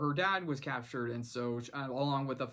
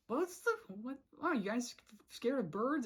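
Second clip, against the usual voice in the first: high, incredulous teasing; mock disbelief, much higher; light sarcastic imitation; incredulous Sasha; 8 semitones higher than usual. Sasha mocking soldiers.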